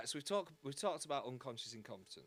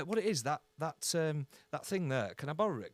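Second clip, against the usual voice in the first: mock sly favour ask; 9 dB louder than usual. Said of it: "they've got an agenda".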